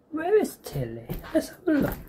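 high, soft sing-song to the cat; cat-talk voice. Real, not acted. Vlogger looking for her cat, high and soft. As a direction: coax the pet in a lilting high voice.

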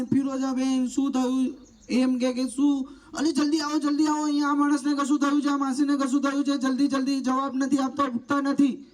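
urgent, high, fast call for help; loud urgent call. Shown as a demonstration. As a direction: shout for help as if someone collapsed. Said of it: "જોરથી બૂમ પાડવાની". (ગભરાટમાં જોરથી મદદ માટે બૂમ)

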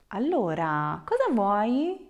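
cheerful greeting lifting into a bright question; happy and cheerful. Shown as a demonstration. Teacher shows students a friendly offer to help, super happy and cheerful. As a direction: ask it cheerily, rising at the end. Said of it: "like super happy and cheerful".

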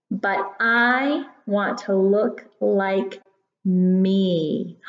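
gentle storytime reading voice; reading to a toddler. Acted. Reads poem to children.

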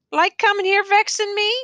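high, pointed challenge; needling retort. A narrator's reading. Prisoner challenges his visiting teacher, high and needling. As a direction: throw the question back at him.

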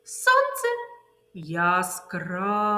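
"яскраве" stretched slowly; slow sign word. Shown as a demonstration. Teacher modelling the rain word game. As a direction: snap the noun, stretch the adjective. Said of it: "ознаки повільно".

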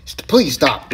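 high, loud begging; exasperated pleading. Real, not acted. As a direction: protest as the blows keep coming. Begs attacker to stop hitting.

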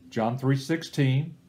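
slow and deliberate, "three" lifted a little; reference spoken slowly. Shown as a demonstration. Teacher demonstrating how to say "John three sixteen". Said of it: "say the reference front".

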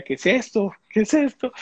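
bewildered alarm. Retold or imitated. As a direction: recall the shock of not understanding. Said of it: "Yo decía". (desconcierto que sube de tono)

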